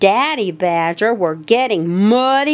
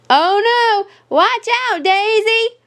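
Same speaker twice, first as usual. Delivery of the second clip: much higher alarmed warning call; 11 semitones higher than usual. A narrator's reading. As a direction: warn her before she falls. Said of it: "Mama Rabbit called".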